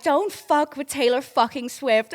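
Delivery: slow, loud imitated threat; mock angry warning. Superfan defending a singer to blackjack players, mock angry warning. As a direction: hammer it out slowly as a furious fan.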